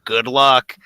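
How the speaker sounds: loud, high mock-boss taunt. Imitating a hated boss taunting a worker by video email, loud and taunting. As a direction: needle them loudly, pitch jumping up. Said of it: "taunt you the whole time".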